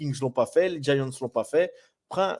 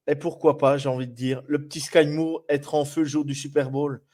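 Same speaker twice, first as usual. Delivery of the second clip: ordinary delivery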